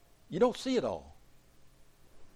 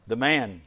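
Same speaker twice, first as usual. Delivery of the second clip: "The man." with "man" leaned on and set apart after a pause; stress on man; 4 dB louder than usual. Shown as a demonstration. Preacher stressing "The man." to the congregation, "man" weighted. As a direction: hit "man" and let it hang. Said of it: "I emphasize the word man".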